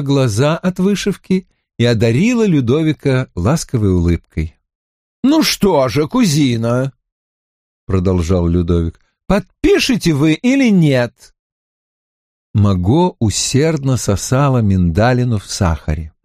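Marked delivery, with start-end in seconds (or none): 5.2-11.3 king's voice. Acted. King Louis presses her.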